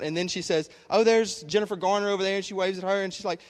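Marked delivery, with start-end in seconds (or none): 0.9-2.4 higher, louder starstruck imitation; retold fan excitement; mock freaking out. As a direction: act out spotting a celebrity, excitedly. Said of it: "she's freaking out".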